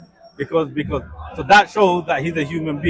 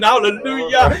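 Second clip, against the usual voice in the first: mock praise; 5 semitones higher than usual.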